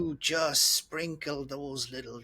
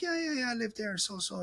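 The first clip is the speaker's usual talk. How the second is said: higher, eager quoted self; own past reply; 9 semitones higher than usual. Retold or imitated. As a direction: answer the shopkeeper eagerly. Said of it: "I'm like".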